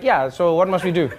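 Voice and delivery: lightly voiced unhelpful dispatcher; South African operator. South African operator to cat owner, mildly indifferent. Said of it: "if you had South African operators".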